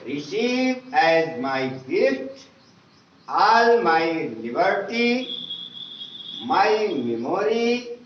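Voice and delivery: slow, measured recital of a prayer, each phrase set apart; slow prayer reading. Acted. Teacher reciting the English prayer to pupils, slow and measured. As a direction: read the prayer aloud slowly and devoutly for the class.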